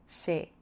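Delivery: she said slowly and clearly; careful slow teaching of she; teacher naming a sound. Shown as a demonstration. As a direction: spell out she for learners. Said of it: "a she".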